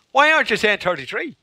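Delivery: high-pitched mock demand; hammed-up complaint; retold wound-up pupils. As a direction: pester like an exasperated schoolkid.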